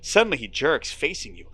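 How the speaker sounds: steady storyteller read; moody game narration; story narration. A narrator's reading. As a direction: draw the listener into the fog. Narration continues.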